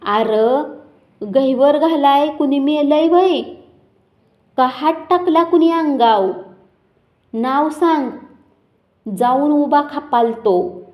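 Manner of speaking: fed-up man yelling over the crying crowd. Acted. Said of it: "मी बायकांच्यावर आवाज चढवीत खेकसलो".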